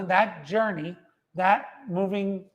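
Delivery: talking round a bite of food; words muffled by a mouthful; mouth full. Real, not acted. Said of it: "sorry, I had something in my, my mouth there".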